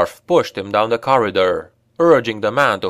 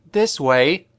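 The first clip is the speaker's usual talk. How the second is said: higher elf woman voice; eager elf; 5 semitones higher than usual. A narrator's reading. Elf leading Brunner down the corridor, higher eager voice. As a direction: lead them on, higher.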